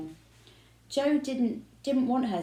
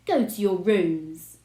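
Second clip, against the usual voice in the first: stern order; 7 dB louder, slower than usual. A narrator's reading. Father ordering angrily.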